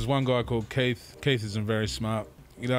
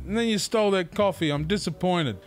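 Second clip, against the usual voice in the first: high-pitched, incredulous retold scolding; exasperated, half-laughing lecture; mock telling-off; 8 semitones higher than usual. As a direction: act out reproaching a mate over stolen coffee.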